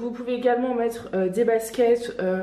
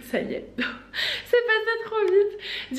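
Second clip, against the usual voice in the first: laughing high and slow through the words; 10 semitones higher, much slower than usual. Real, not acted. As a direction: let the laugh carry the line up high. Laughing about autumn arriving.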